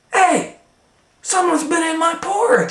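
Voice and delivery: high, loud cartoon bear voice; Papa Bear. Papa Bear finding his porridge eaten, high and loud. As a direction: bellow it as the outraged bear. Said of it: "said Papa Bear".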